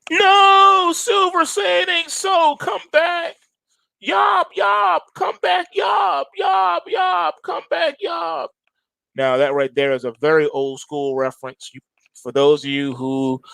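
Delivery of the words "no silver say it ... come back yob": high, wailing cartoon dad begging his alien boy to return; cartoon dad calling. Host mourns silver as a cartoon dad calling his alien son home, high and wailing. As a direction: cry out after a spaceship flying away. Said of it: "That's from the old Bugs Bunny joint".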